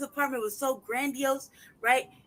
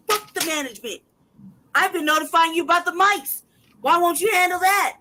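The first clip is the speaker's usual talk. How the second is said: louder, higher angry yell; real yelling; 5 semitones higher, 6 dB louder than usual. Real, not acted. Tenant shouting at management about the mics, furious. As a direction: shout it at the landlord. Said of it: "I'm sorry, I'm yelling".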